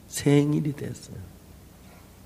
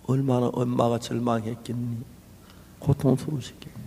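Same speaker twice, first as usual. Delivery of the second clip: quietly; 6 semitones lower than usual. Retold or imitated. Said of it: "사모님이 조용히 말씀을 해요".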